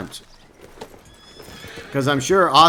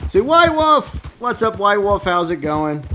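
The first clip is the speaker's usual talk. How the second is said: excited greeting; 8 semitones higher, slower than usual. Real, not acted. Streamer greeting White Wolf in the stream, excited and high. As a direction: call out high to welcome a friend. Greeting a viewer who arrives.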